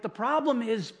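slow, emphatic re-enacted pulpit delivery; worked-up preaching. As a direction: preach it worked up, drawing out the words. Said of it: "I was a little worked up".

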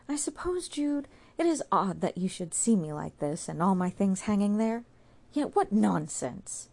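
put-on a sick girl asking for help; ill young woman. Sue tells Jude she feels ill, pleading.

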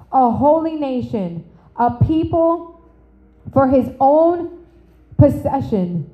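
slow, solemn scripture read. Acted. Preacher reading First Peter to the church, slow and solemn. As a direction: let each phrase land slowly.

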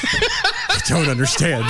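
high, slow, laughing shriek; exasperated outburst. Acted. Colleague baffled by the whispering, laughing high outburst. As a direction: burst out of the whisper in shrill bafflement.

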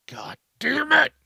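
hushed, despairing god damn it; defeated whisper. Retold or imitated. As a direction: breathe it out like you just gave up. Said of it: "You're like".

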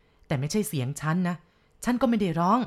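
ปฏิเสธอย่างตื่นตระหนก; alarmed denial. Acted. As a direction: deny it in a panic. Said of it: "ปฏิเสธหน้าตื่น".

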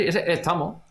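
"estamos" drawn out with an aspirated T; aspirated T demo. Shown as a demonstration. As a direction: show the breathy Extremaduran T in "estamos". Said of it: "una T que es como aspirada".

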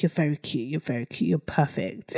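soft, low, doting reassurance; tender praise. Acted. Mum assuring her little boy he's cute, tender. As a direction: coo it quietly to a child.

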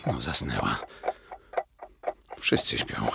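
low hushed murmur; soft so no one wakes; quiet at night. Acted. Alarm clock whispering, all asleep. (cicho, nocą)

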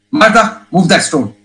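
authoritative command, imitated; strict authority. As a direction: give a strict order with authority. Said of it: "Very strict, in authority".

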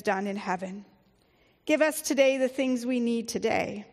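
measured, reverent prayer reading. Acted. Pastor praying aloud with the congregation, reverent. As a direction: lead the church through the prayer.

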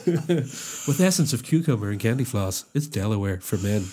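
lightly hammed-up commercial sign-off; advert voice. Selling Delaware aftershave for men, mock advert voice. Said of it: "that's my advert voice".

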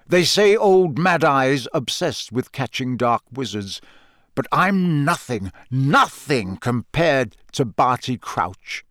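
a hint of a grizzled old Auror, slowing at the end; lightly voiced veteran dark-wizard catcher; gruff old Auror. Moody confiding in Harry, a lightly voiced old Auror, slowing.

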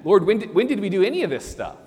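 high, quick astonished question; amazed sheep. Acted. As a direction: tumble out in humble surprise. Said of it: "The sheep didn't know".

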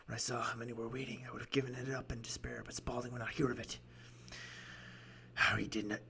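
lightly rasped storytelling client; raspy voice. Acted. Client telling gentlemen his story, lightly raspy voice. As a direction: recount it with a hint of rasp. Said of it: "doing this raspy voice for him".

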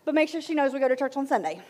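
high, sugary mother; sweet mom voice. Acted. Mother answering daughter's sleepover request, high and sweet. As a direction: answer your baby brightly.

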